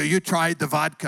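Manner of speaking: put-on Russian accent; lightly mocked Russian accent; Mike the Russian. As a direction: imitate the Russian neighbor checking up. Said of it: "he always talks like this".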